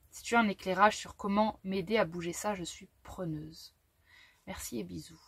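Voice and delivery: French read with a German accent; light German accent on the French. Real, not acted. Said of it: "je prends un accent allemand".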